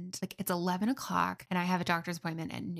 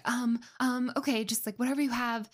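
panicked; 5 semitones higher than usual. Retold or imitated. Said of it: "like, panicked".

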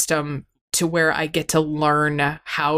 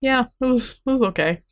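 lightly higher, breezy fake cheer; forced casual; 6 semitones higher, faster than usual. Telling the therapist about vacation, mock-breezy. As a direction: pretend it was fine. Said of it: "look at you and be like".

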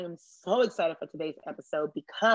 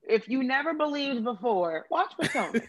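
laughing; 5 semitones higher than usual. Real, not acted. Laughing while preaching Potomac.

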